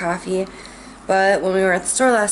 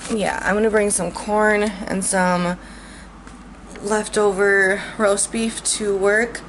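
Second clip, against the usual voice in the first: talking through hiccups; hiccuping between words. Real, not acted. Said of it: "I have the hiccups".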